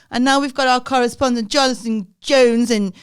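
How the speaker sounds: hammed-up weather-report link; mock news anchor. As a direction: announce it like a TV newsreader. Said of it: "so they go".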